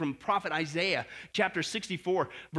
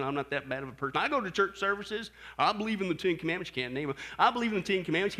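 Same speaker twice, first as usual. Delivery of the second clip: self-righteous excuse; 4 semitones lower, faster than usual. Retold or imitated. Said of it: "with an arrogant attitude".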